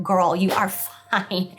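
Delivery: comforting her younger self slowly; reassuring. Retold or imitated. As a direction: gently tell herself it's okay.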